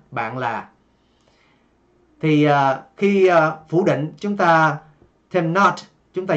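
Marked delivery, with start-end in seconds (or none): none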